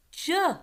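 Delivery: "J" said as juh; soft G. Shown as a demonstration. Teacher contrasting the two sounds of G, soft G. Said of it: "it has to make the".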